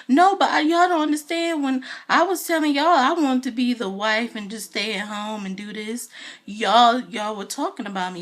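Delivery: mock Portia's tearful protest; imitating crying Portia. Portia protesting to castmates, mock upset. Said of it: "So she starts crying".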